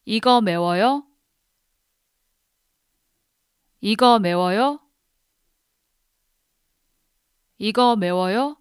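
"이거 매워요?" said clearly, with a rising question tune; careful Korean demo. Shown as a demonstration. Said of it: "I'm gonna repeat it three times. Listen carefully".

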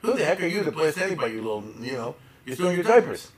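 fast, mock scornful rebuke; elder mockingly scolding a young critic. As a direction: put the upstart in his place. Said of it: "he said".

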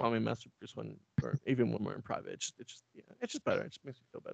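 very soft, trailing murmur; sheepish aside. Acted. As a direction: murmur it privately, as if embarrassed to insist. Sheepish aside after order to servant.

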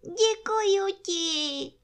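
very high, slow, drawn-out thanks; happy bear's murmur. A narrator's reading. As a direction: stretch the thanks out in a high bear voice. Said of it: "mručel Pů".

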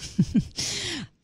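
short, high chuckle; quick amused giggle; laugh. Real, not acted. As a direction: laugh briefly to close the game. Amused as word game ends.

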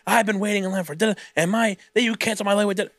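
a touch of an irate customer, hurried; mock irate customer. Customer complaining to Devin, mock angry. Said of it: "the most irate customer".

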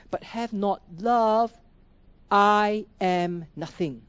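solemn, deliberate Bible reading with pauses; scripture reading. Acted. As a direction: lean on each line as you read it aloud. Reads scripture slowly, emphatically.

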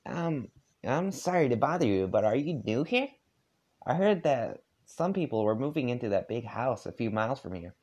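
put-on a polite nervous kid; a hint of a young John; John's voice. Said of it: "I gotta get my voice for John".

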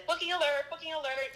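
bright announcer-style post voice; excited announcement. Retold or imitated. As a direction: announce it like big news. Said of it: "rather than".

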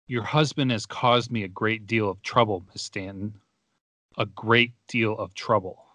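slow, heavy, repetitious villain read with long pauses; mock the colonel's ponderous line reading, pausing between phrases; an understated stiff actor's menace; imitating slow repetitious delivery. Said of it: "I'll try to say it at the same tone and the same speed".

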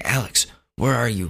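imitated demanding mom. Mom phones her son at his friend's house, demanding. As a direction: lightly voice an impatient mother calling.

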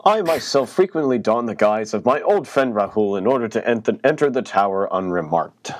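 lightly voiced hushed character read; Fenchurch voice. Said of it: "I need to do my Fenchurch voice".

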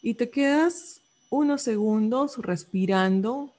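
measured guiding voice with long pauses; unhurried meditation instructions, phrase by phrase; guided meditation. Acted. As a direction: guide the listener gently through a body scan. Leads a body-scan meditation.

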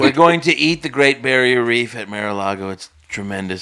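low-register Trump parody; Trump impression. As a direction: join in as a deep, boasting Trump. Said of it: "Trump, fuck off, mate".

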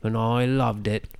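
lightly voiced fan; a hint of a nerdy listener; imitating a listener. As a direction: tell it like an earnest fan. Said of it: "be like".

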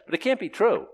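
high, emphatic ironic protest; mock objection. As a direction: feign certainty, building to a loud 'right?'. Ironically voices objection to one way.

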